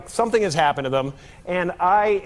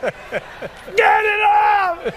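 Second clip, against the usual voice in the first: panicked screaming; 12 semitones higher, much slower than usual. Retold or imitated. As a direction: shriek like something's stuck on you. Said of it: "they would have said something like".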